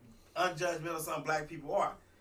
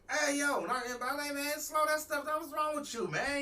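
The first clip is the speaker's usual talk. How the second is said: retold protest; 11 semitones higher than usual. Retold phone quarrel, raised pitch.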